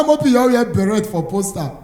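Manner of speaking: normal talking voice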